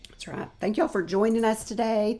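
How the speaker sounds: hoarse from allergies; rough, scratchy throat. Real, not acted. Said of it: "my scratchy voice".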